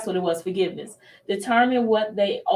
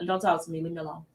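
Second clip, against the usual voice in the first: low and much softer, shutting people out; withdrawn brush-off; 4 semitones lower, 6 dB quieter, faster than usual. Retold or imitated. Upset mother retreating to her prayer room, low and soft. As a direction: fade away as you push them off. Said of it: "walk away from everybody".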